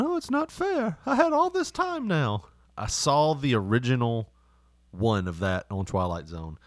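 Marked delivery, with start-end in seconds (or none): 0.0-2.4 high, anguished wail; despairing whine. Retold or imitated. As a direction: cry out at the unfairness. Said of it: "he keeps going".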